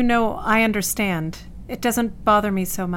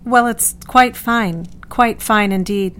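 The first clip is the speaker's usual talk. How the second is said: mild, even-toned placidity; placid indifference; 4 dB louder than usual. Acted. Patient answering her doctor before his students, placid and indifferent. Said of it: "Dot presents a placidity and indifference".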